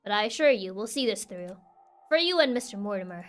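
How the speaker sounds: a hint of an investigator reassuring a client; lightly voiced reassuring detective.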